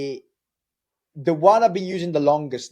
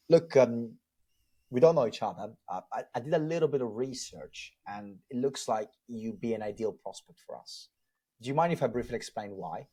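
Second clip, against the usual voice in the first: soft, low-key sales opener; softer, relaxed tone; 3 semitones lower, 5 dB quieter than usual. Shown as a demonstration. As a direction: ease into the pitch softly and calmly. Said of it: "softer tone, a bit more relaxed".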